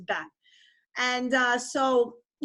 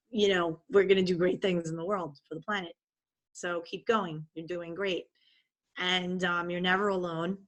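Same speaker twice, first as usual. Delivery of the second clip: tender reassurance. Retold or imitated. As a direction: soothe someone who is crying. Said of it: "And she goes".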